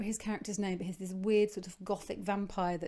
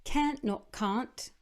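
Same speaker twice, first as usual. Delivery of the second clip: low note; 3 semitones higher, much slower than usual. Shown as a demonstration. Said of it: "How low can you go on "can't stop".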